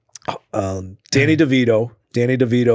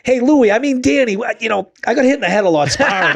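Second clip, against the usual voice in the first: mimicking Mickey; 11 semitones higher than usual. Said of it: "He goes".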